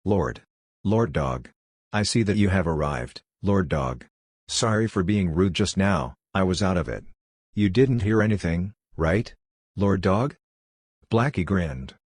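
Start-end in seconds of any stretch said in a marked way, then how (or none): 0.0-10.4 whining. Acted. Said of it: "He instantly curled up and whined".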